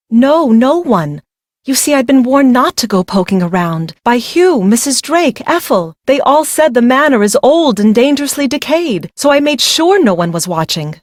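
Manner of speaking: anxious defense. Acted. Bride nervously defends herself to Nancy. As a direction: insist defensively.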